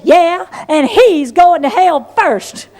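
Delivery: slow, laughing comeback; defiant laughing retort. Retold or imitated. Angry girl answering her sister about their father, laughing defiantly. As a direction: shoot back with a cheeky laugh. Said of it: "I said".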